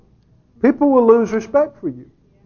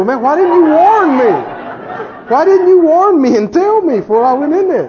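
laughing complaint; 7 semitones higher than usual. Retold or imitated. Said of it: "Catch Gable on the way out and go".

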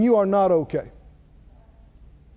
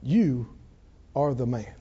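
hushed repeat; 8 semitones lower, 5 dB quieter than usual. Acted. Hushed repeat of Nathan's verdict.

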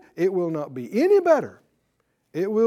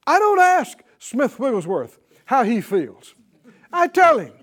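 louder bellowing declaration; 3 semitones higher, 7 dB louder than usual. Retold or imitated. Wigglesworth asked how he feels, bellowing answer. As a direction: bellow it out with authority. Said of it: "he'd bellow and say".

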